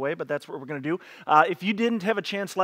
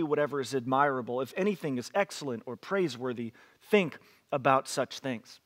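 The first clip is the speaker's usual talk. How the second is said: scripture reading. Acted. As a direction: read the verses to the congregation with weight. Reads Philippians 4 aloud.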